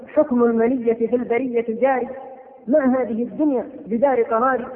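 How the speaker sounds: measured, chanted reading of classical verse; poem recitation. Acted. Preacher reciting an old elegy to the congregation, measured and solemn. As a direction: recite the elegy with weight and rhythm.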